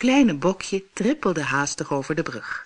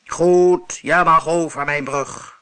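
grumbling monster; 6 dB louder than usual. Acted. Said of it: "bromde hij".

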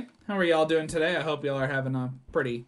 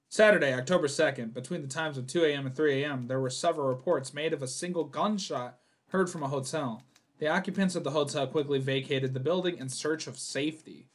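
measured narrator read of the note; a mild spooky narration voice; reading game text. Acted. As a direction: read it like an ominous case report. Reads game intro text.

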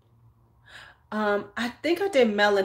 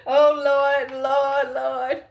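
embarrassed exclamation; 5 semitones higher, 6 dB louder, much slower than usual. Real, not acted. Embarrassed exclamation after cursing.

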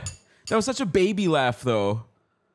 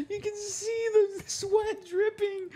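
excited; 14 semitones higher, 4 dB quieter, much slower than usual. Real, not acted. Sweating from spice.

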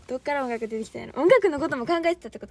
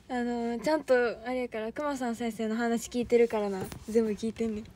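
normal talking voice

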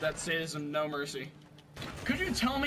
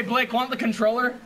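usual speaking voice

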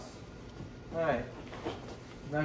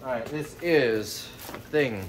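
ordinary delivery

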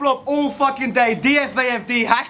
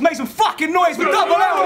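hype announcement; 4 semitones higher than usual. Real, not acted. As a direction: call the name out to the crowd. Host introduces battler to crowd.

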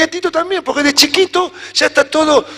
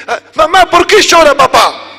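lightly voiced child, a bit higher; small child voice; 5 semitones higher, 3 dB louder than usual. Little son asks mom why dad cries, lightly childlike. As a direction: ask mom innocently like a little kid.

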